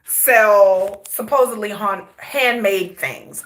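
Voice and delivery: stumbling over words, sore mouth; tongue-tied from braces. Real, not acted. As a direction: talk with freshly tightened braces. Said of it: "I'm tongue-tied today".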